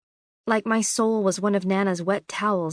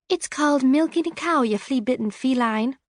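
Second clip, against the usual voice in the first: indignant retort; 5 semitones higher than usual. A narrator's reading. Lily snaps at unseen cat.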